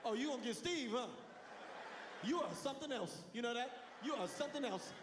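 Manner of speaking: high, scoffing mock disbelief. Son mocking dad's threat to call Steve. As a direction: sneer at his empty threat.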